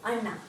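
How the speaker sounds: ANNA with tongue curled to the palate; a careful ANNA, n on the upper palate; careful retroflex anna. Shown as a demonstration. Teacher repeating elder brother for learners, retroflex anna. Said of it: "be very careful when you pronounce".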